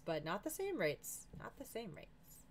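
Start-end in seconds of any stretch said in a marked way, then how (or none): 1.4-2.4 much softer, slow repeat; soft, higher, drawn-out echo; hushed aside. Real, not acted. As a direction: trail it under your breath, slowly.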